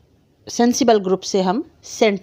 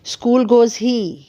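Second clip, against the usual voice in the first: very slow, word by word; spaced-out demo of a jumbled sentence; wrong word order demo; 3 semitones higher, much slower than usual. Shown as a demonstration. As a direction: lay out each word slowly to show the mix-up. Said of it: "वो school जाता है।".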